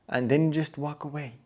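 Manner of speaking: usual speaking voice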